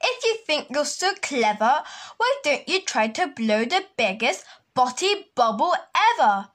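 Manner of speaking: teasing challenge. Acted. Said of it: "cried the hermit crab".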